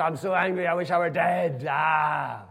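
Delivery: loud, high sulking outburst; Jonah's loud, high angry retort. Retold or imitated. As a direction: blurt it out like a furious spoilt child. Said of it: "he says".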